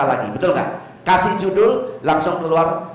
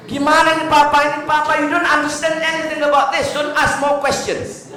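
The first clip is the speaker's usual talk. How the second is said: put-on impatient child; 11 semitones higher than usual. Child teaching father the phone, high bossy impatient voice. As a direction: lecture papa like a know-it-all child. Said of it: "Ngajari papanya".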